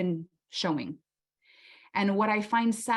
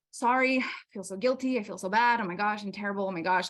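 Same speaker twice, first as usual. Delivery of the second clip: mock guilty apology; faster than usual. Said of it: "Okay, self-deprecating".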